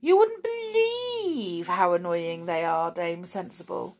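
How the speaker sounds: sly whiny goblin. A narrator's reading. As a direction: tattle on the others. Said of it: "said Snap".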